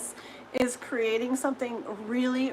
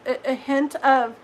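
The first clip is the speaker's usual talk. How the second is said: hiccuping mid sentence; hiccups; 4 dB louder than usual. Real, not acted. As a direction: speak through a hiccup. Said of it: "I'm hiccuping again".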